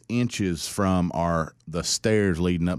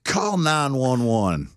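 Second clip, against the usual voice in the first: firm instruction; 7 semitones higher, 4 dB louder, slower than usual. Retold or imitated. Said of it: "I'm just like".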